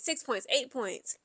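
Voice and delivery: slow hushed whisper; whispered tension. Real, not acted. Whispering slowly while recounting the tense comeback. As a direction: breathe the numbers out slowly.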